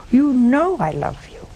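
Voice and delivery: hushed, unvoiced whisper of love; whispered confession. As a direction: let Peter barely breathe it out. Peter answering Jesus, broken.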